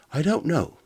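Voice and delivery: high, loud worried robot. Acted. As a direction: answer in a high anxious robot voice. Helicopter robot Coptor answers.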